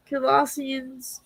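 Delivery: "Colossians" slowly sounded out; careful pronunciation. Real, not acted. Streamer correcting the book name she mixes up, "Colossians" said slowly and carefully. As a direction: sound out "Colossians" with drawn-out care. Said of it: "I have a hard time pronouncing".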